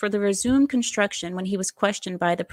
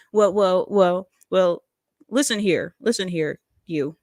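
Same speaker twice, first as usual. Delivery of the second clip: Obama impression. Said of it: "that's Obama".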